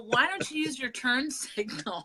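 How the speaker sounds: high, drawn-out exasperation at another driver; mock road-rage yelling. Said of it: "yelling at people".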